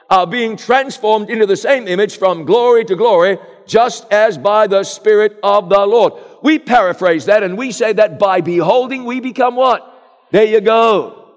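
full-force sermon delivery; preaching. Acted. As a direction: preach it out to the congregation. Preacher reads scripture, calls response.

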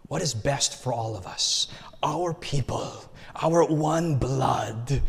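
lightly voiced wife, slowing to a whisper on "our one blood"; solemn hushed wife. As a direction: hush it like a sacred vow. Voicing his wife's collective view.

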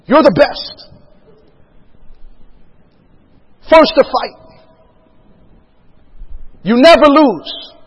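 imitating a general rallying the troops, slogans set apart by long pauses; rousing speech. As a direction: proclaim it to the assembled battalion. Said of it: "he's giving this rousing speech".

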